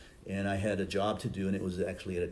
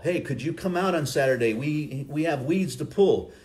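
imitating a cheerful caller; 5 semitones higher, 5 dB louder than usual. Imitates a church volunteer call.

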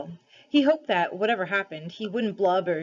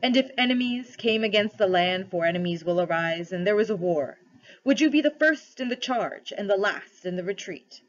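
solemn, measured questioning with mild authority; lightly voiced lion ruler, questioning; 4 dB louder than usual. Aslan tests the cabby for kingship, lightly solemn. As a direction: test him gently but gravely.

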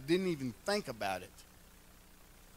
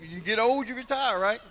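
joking high; 8 semitones higher, 8 dB louder than usual. Real, not acted. Joking about old age.

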